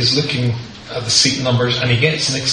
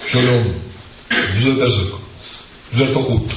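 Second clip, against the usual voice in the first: Hebrew phone message. Retold or imitated. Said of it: "the guy says like this".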